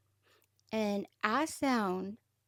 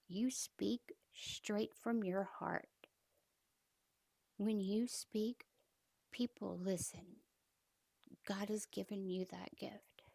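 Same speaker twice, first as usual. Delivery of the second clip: slow, hushed whisper of encouragement; captain's soft, slow encouraging whisper; tender whisper; 6 dB quieter, slower than usual. Retold or imitated. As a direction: whisper it like a kind secret.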